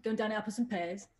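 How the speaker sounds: light Cockney, quickly said; East Ender accent. Shown as a demonstration. Host asked for an East Ender, quick Cockney attempt. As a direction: try a quick London Cockney. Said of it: "done the East Ender accent".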